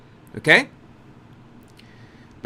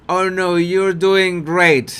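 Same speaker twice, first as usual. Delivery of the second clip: snarky; 3 dB louder, slower than usual. Retold or imitated. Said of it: "that's a snark".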